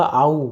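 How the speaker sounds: आऊ with both vowels run together; joined vowel demo. Shown as a demonstration. Teacher joins two sounds for learners, saying आऊ as one blend. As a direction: glide from आ into ऊ in आऊ. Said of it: "इन दोनों का उच्चारण जब मिलाएंगे".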